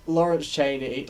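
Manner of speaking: Lawrence Chaney in a Scottish accent; Scottish-accented name. Shown as a demonstration. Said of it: "I keep losing the accent today".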